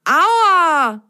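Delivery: sudden high pained yelp; ouch. Acted. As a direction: cry out as your head hits. Bumps head, ouch.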